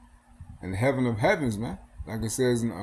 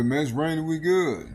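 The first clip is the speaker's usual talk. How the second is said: higher, louder mock voice of careless folks; mocking careless people; 6 semitones higher, 4 dB louder than usual. Preacher mimics people shrugging off the rain, mock carefree voice. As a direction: brush it off like nothing's wrong. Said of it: "Which people say".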